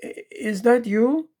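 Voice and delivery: timid wife calling down; little voice. Acted. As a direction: sound small and far off. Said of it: "a little voice coming down from upstairs".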